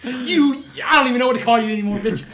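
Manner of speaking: high, loud, fast furious rant; angry New Yorker rant. Retold or imitated. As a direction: rattle it off like a fuming New Yorker. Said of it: "some New Yorkers is getting very angry".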